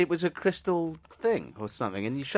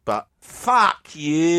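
defiant; 3 semitones higher, 5 dB louder, much slower than usual. Retold or imitated. Acted retort.

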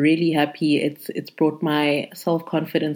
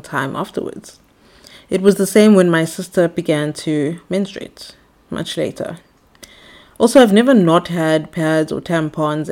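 air hostess voice. Acted. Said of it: "put on my air hostess voice".

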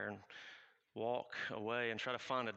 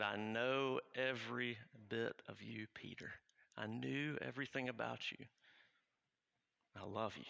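tender voice of Jesus; 3 dB quieter than usual. Acted. Jesus silently speaking to his failed friend, tender. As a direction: tell him gently you know him.

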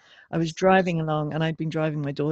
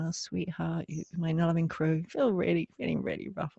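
much softer, soothing to yourself; tender self-compassion; 4 dB quieter than usual. Retold or imitated. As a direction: comfort yourself like a loving mother. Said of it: "connected in and with compassion".

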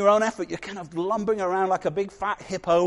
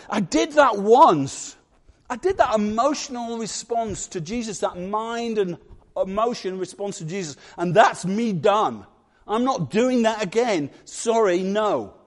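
a hint of a sulky cat who refuses to go back in; stubborn cat voice; 2 semitones higher than usual.

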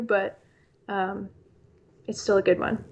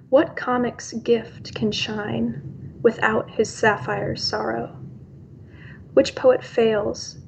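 poem reading. Acted. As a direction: let each line land, unhurried. Reads her own poem.

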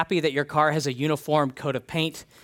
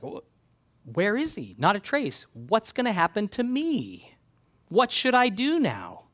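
higher, mock-frantic questions; panicked Reuben; 5 semitones higher than usual. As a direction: act out Reuben's alarm at the empty pit. Reuben panics at empty pit.

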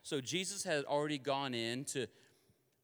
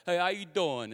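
louder attempt at a New York hello; New York accent; 5 dB louder than usual. Preacher ordering at a deli, attempted New York accent. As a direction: greet them in a put-on New York accent. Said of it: "a New York accent".

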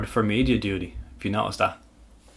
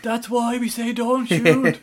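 mock exasperated; 12 semitones higher, slower than usual. Mock exasperation after miss.

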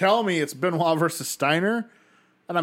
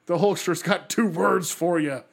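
Hulkster impression; 3 semitones higher than usual.

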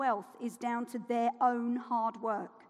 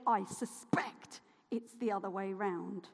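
whispered aside, lower and softer; 6 semitones lower, 8 dB quieter than usual. Real, not acted. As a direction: lean in and whisper it. Aside after the mock quote.

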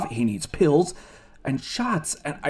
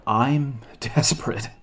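rueful laugh mid-line, slow; slower than usual. Acted. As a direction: laugh at your own desperation. Admits desperation.

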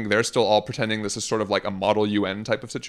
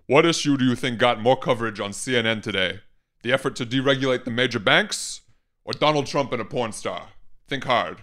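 put-on Bernie accent. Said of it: "do this in the Bernie accent".

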